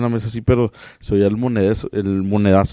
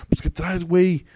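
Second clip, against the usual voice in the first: higher, rough-sounding norteño challenge; northern güey; 6 semitones higher than usual. Retold or imitated. Northerner greets a friend with güey, higher, mock-gruff norteño. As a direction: toss out güey like a blunt northerner. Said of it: "decir la palabra güey a alguien".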